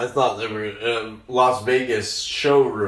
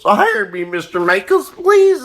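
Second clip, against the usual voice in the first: pleading; 9 semitones higher, 4 dB louder than usual. Acted. Begging Lorne Michaels for job.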